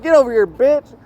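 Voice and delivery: high-pitched mock yell at a rival; over-the-top taunting voice, pitched high; acted yelling. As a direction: ham it up like a trash-talking heckler.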